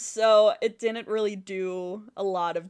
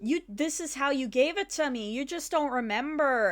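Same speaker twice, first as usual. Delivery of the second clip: snide; 4 semitones higher, faster than usual. Retold or imitated. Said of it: "he was so snide about it".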